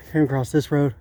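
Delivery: panting between phrases; winded, catching breath while talking. Real, not acted. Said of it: "Sorry, I'm out of breath".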